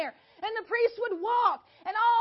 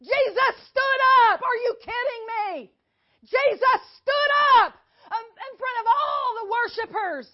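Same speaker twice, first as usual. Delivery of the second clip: 1 excited; 6 dB louder than usual. Real, not acted. Teacher building to the climax.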